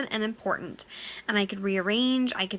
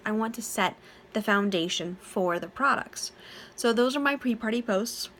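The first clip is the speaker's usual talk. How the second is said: yawning. Real, not acted. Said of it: "Sorry, it's late and I'm yawning a lot".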